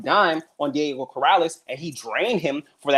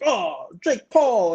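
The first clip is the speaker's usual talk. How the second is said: mocking fan voice; 7 semitones higher, much slower than usual. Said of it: "they're like".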